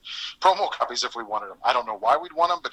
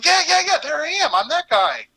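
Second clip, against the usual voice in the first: excited recognition; 13 semitones higher, 5 dB louder than usual. Retold or imitated. Recognizing himself in movie.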